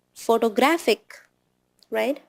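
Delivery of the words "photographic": PHOTOGRAPHIC in a lightly imitated Indian accent. Shown as a demonstration. Teacher showing the error of a student from India, Indian accent. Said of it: "It is not".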